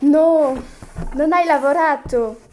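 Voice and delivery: loud, stern rebuke; stern scolding. Acted. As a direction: come down hard on her. Mother scolds daughter over homework.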